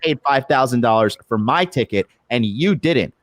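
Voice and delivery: mildly heated rant, pitch jumping at start and end; retold angry yelling. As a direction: indignantly retell your own angry outburst. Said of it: "I was angry. I was yelling".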